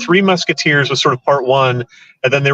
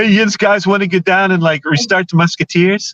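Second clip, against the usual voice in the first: put-on casual Pittsburgh accent, pitched up; 5 semitones higher than usual. Joking about a period film with modern-sounding actors: put-on Pittsburgh accent. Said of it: "with their Pittsburgh accent".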